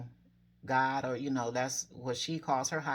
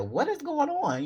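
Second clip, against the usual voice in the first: much higher, louder cry of bewilderment; a desperate plea for answers; anguished disbelief; 12 semitones higher, 5 dB louder than usual. Retold or imitated. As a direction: cry it out as if to the sky. Despair at God not coming through.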